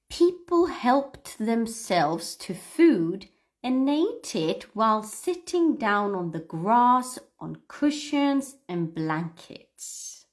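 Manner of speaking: slow, deliberate reading aloud; careful reading. Shown as a demonstration. Teacher reading a new text to students, slow and careful. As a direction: read each phrase carefully and slowly. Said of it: "a different accent and different text".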